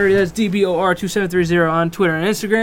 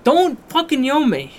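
mock angry; 8 semitones higher than usual. Real, not acted. Mock scolding.

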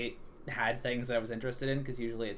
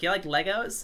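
lightly imitated eager sales pitch, higher and louder; kids playing car salesman; 7 semitones higher, 5 dB louder than usual. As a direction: pitch it up like a kid hawking toys. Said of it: "car salesman me around".

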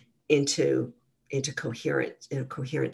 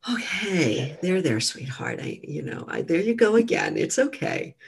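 loving self-talk; 3 semitones higher than usual. Shown as a demonstration. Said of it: "And so with this loving voice".

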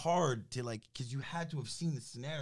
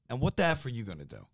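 mock taunting hustler; 3 semitones higher than usual. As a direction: taunt him, what are you gonna do. Hijacker taunting on phone.

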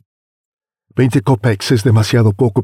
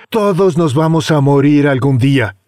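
callous; 5 semitones higher than usual. Acted. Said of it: "el más agresivo".

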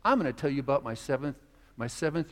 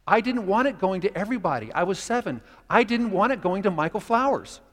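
put-on rising louder, a sulky kid's protest building; childish indignation; 4 semitones higher, 5 dB louder than usual. Preacher reliving his seven-year-old resentment, growing louder. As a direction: let the old grudge swell until it bursts.

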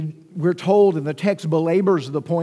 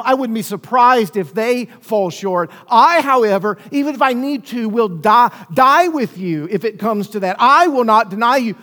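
louder and higher, a confident vow; emphatic boast; 4 semitones higher, 5 dB louder than usual. Retold or imitated. Preacher voicing Peter's boast to Jesus, loud and emphatic. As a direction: swear it like a proud disciple who cannot fail. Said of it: "who was absolutely emphatic".

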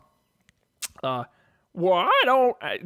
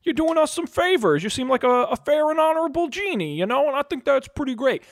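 higher, eager horse voice; Vankar voice; 6 semitones higher than usual. Acted. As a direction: flatter the genie sweetly. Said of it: "Vankar goes".

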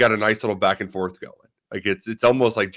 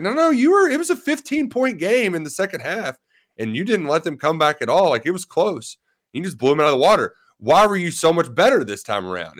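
high-pitched imitation of a Southern reporter pressing the point; mock Southern accent; 7 semitones higher than usual. Reporter pressing Cal at the press conference, mock Southern accent, pitched high. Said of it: "he's got this really Southern accent".

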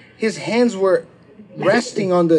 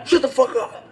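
a higher, hammed-up shout at his own client; imitating a lawyer snapping at his client; mock furious yell; 6 semitones higher than usual. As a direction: bark it at her like a boss losing it. Lawyer yells at client again.

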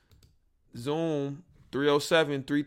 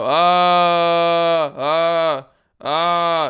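long loud yelled ahs; loud mic-test scream; 4 semitones higher, 10 dB louder, much slower than usual. Shown as a demonstration. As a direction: belt out a test yell. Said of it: "I scream and it goes down".

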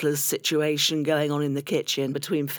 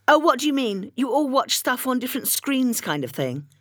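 nosy neighbour; 8 semitones higher than usual. Retold or imitated. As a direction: put on a high, nosy busybody voice. Julia Betterton voiced in anecdote.

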